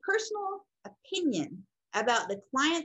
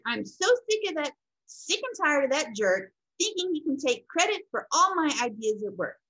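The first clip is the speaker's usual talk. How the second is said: mildly acted irritation, higher at first; a touch of seething exasperation; annoyed client; 4 semitones higher, 4 dB louder than usual. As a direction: voice a fed-up client, lightly heated. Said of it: "he could be annoyed or seething".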